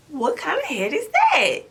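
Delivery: high, cracking alarmed cry; startled high cry to husband; shocked shriek. Retold or imitated. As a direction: shriek it in disbelief at the size. Shocked at huge baby head.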